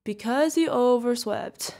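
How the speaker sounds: slow, emphatic joke answer; drawn-out punchline. Acted. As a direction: stretch out the silly pun. Delivering a groan-worthy punchline.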